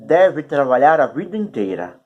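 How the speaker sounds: talking around a cork held in the mouth. Real, not acted. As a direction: speak with a cork between your teeth. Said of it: "É engraçado falar com essa rolha na boca".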